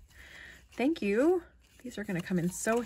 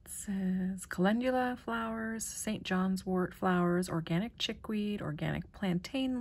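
whisper; 5 dB quieter than usual. Real, not acted. Reading label in whisper.

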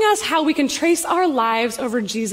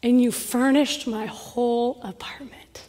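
tearful; 3 semitones lower, 6 dB quieter than usual. Retold or imitated. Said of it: "she's just crying and says".

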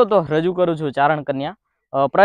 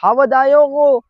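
loud, high, drawn-out holler; imitated shout, stretched long; sudden alarm call; 10 semitones higher, 8 dB louder, slower than usual. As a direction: call out across the forest that the beast has come. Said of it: "અચાનક કોઈકે બૂમ પાડી".

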